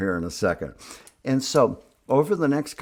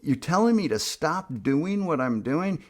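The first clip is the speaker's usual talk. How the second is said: retold disbelief, pitch jumping much higher; incredulous disbelief; 7 semitones higher than usual. To his sponsor on the phone, incredulous and pitched up. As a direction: sound stunned by what the sponsor said. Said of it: "And I was like".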